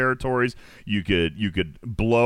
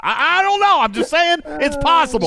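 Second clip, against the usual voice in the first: high, coy mock-innocent voice; 5 dB louder than usual. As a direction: play innocent in falsetto. Coy denial after threat.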